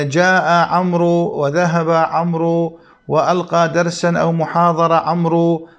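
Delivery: every "عمرو" wrongly ended in a long oo, amroo; common media mispronunciation. Retold or imitated. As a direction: imitate the error, voicing the waw of "عمرو". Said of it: "التلفظ بواو عمر، فيقولون مثلًا".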